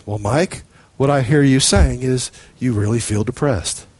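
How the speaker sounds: low, calm, soothing therapist voice; mirroring therapist. Retold or imitated. Preacher mimics a therapist echoing a client, low and calm. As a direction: parrot it back like a patient counsellor. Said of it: "a Rogerian psychologist will do".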